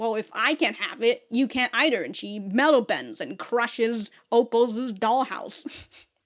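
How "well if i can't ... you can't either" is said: angry, spiteful, vindictive tone. Retelling a cartoon scene where a character crushes a dollhouse: imitating an angry character. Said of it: "She gets angry and she says".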